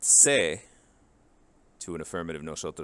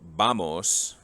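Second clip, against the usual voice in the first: slow, clear vamos; 5 dB louder than usual. Shown as a demonstration. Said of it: "the S at the end ... disappears".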